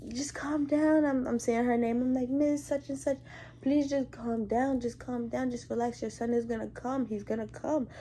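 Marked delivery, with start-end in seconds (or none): 0.1-1.1 high coaxing voice; soothing plea. Retold or imitated. Nurse trying to push patient down, coaxing plea. 2.3-7.9 coaxing, slightly raised voice; soothing plea. Retold or imitated. Nurse promising patient her son will come, soothing plea.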